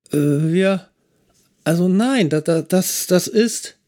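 stumble, searching for words; flustered trainee. A narrator's reading.

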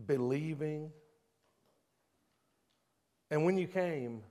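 soft, probing sermon questions; hushed, searching preacher voice; quiet altar call. Acted. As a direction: draw them in gently and personally.

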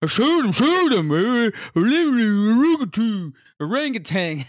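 loud, high, hammed-up Louisiana swamp accent; mock Louisiana accent. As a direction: caricature a thick Louisiana accent. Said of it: "that's how they say it in".

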